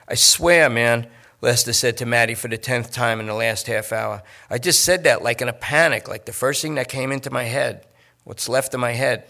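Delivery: lightly voiced whiny junkie; a hint of a nervous addict pleading. Lester pleads with the detective.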